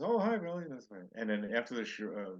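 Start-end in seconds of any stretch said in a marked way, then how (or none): 0.0-0.6 much higher, louder cheery greeting; bright hello to a star; mock sunny hello; imitating a reply. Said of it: "He says".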